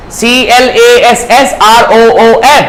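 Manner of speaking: slow letter by letter spelling; spelled out. Shown as a demonstration. Teacher slowly spelling classroom for students. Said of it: "teacher spells out classroom".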